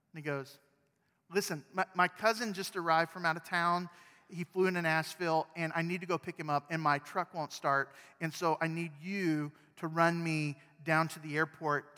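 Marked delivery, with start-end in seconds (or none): 1.3-12.0 pleading neighbor. Pretend. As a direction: beg for a ride in a rush.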